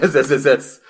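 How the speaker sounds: long snake hiss on the S; drawn-out s like a snake. Shown as a demonstration. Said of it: "They always put the S S S".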